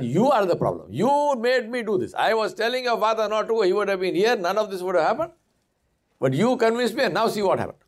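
a mildly acted, reproachful mother; exasperated mother. Mother scolds her daughter over the money, reproachful.

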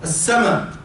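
"as-sama'" short, ending on a brief a; recitation variant. Shown as a demonstration. Teacher naming the Khalaf and Hamza reading, short "as-sama'". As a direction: say "as-sama'" with a short final vowel. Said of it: "this is in Qira'at Khalaf and Hamza".

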